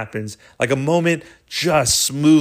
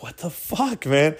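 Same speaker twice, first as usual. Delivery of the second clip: puzzled under your breath; baffled; 3 semitones higher, 3 dB quieter than usual. Retold or imitated. Friends muttering to each other, baffled and hushed.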